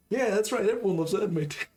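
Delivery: high, loud laughing concession; laughing agreement. Real, not acted. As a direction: give in through laughter. Player gives in, laughing.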